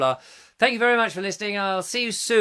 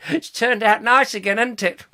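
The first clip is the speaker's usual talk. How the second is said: A singer's catchphrase; 4 semitones higher, 5 dB louder than usual. Acted. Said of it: "that was a good George Smiley".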